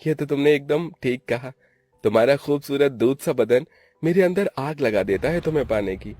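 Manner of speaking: hungry, hushed seduction; lustful. Acted. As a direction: flatter with open desire, fading at the end. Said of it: "शब्दों में हवस भरी हुई थी".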